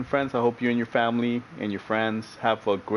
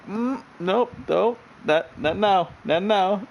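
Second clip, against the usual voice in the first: higher, strained pleading with yourself; suppressing laughter; 8 semitones higher, much slower than usual. Retold or imitated. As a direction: beg yourself not to crack up. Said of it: "You're like".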